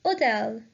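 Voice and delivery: "hôtel" with the H left silent. Shown as a demonstration. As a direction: say "hôtel" as oh-TEL, no H sound. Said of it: "The H is silent here".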